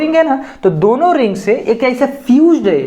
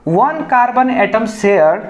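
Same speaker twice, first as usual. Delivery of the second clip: slow dictation; 2 semitones higher, slower than usual. Shown as a demonstration. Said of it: "इसमें ऐसा लिख सकते हैं".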